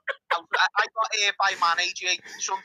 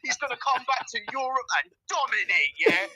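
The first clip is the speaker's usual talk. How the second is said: raised, excited fan-rant impression; Matt; 2 semitones higher than usual. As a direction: exaggerate a friend's impassioned rant. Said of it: "how's that for your Matt impression".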